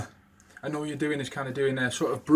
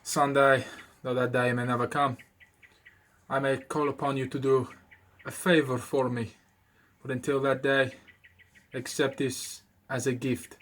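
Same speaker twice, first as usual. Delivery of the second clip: Godfather game quote. Retold or imitated. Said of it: "at the start of the video game it used to go".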